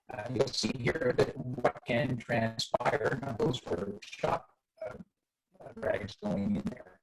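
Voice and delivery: choppy, breaking-up mic audio; mic cutting out. Real, not acted. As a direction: voice dropping out over a bad connection. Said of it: "your mic is cutting out".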